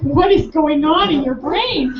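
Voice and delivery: slow question through laughter; delighted laugh while asking; curious, giggling disbelief; laughing amazement. Retold or imitated. Amazed at his lit-up face.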